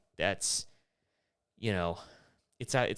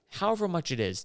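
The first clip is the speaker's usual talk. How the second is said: indignant rant; 11 semitones higher than usual. Real, not acted. Ranting about six-dollar airport water.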